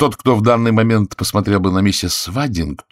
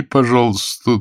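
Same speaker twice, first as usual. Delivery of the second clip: ordinary delivery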